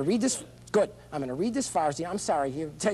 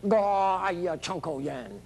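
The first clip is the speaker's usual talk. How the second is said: mock Mandarin; 3 semitones higher, much slower than usual. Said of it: "So I could talk Mandarin".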